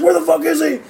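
high, laughing mock shout; mock paramedic yell. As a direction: bark it like a cop kicking in a door. Paramedics burst in, retold.

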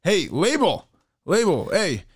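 high, repeated hailing of someone; imitated calling out. Imitates buddy calling out to a passerby.

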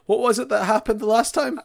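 hammed-up dim villager; mock pondering. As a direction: play a dim villager musing. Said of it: "the guy goes".

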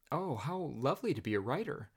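gushing, breathless admiration; rapturous. Retold or imitated. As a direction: fake rapture to flatter him. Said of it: "I breathed rapturously".

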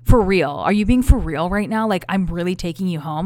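a touch of incredulous anger, loud on "for real"; mock outraged date. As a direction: imitate his disbelief, half-hearted. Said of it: "fighting me the whole way home".

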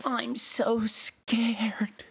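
slow, drawn-out scared whisper; mock-scared whisper. Co-host reacting to the spookiest show claim, mock-scared whisper. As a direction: whisper it as if pretending to be terrified.

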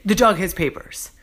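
skeptical echo, leaning on dog; doubting boss repeating it back; mock incredulous. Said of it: "He's like".

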